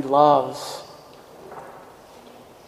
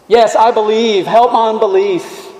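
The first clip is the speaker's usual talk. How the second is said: mild plea; 5 semitones higher, 4 dB louder than usual. Retold or imitated. Quoting the dad's cry.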